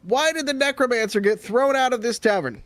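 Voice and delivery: high, bright joke setup; stand-up comic. Acted. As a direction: pitch the punchline setup up to the crowd. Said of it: "he's just starting telling jokes".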